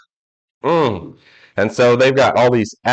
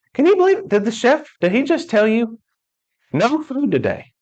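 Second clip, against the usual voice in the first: high, slowed, disbelieving squeal; mock incredulous passenger; 10 semitones higher than usual. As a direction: play the shocked passenger.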